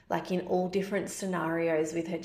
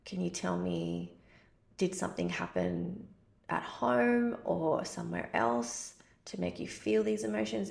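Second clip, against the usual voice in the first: gentle reassurance. Retold or imitated. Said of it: "And I'm like".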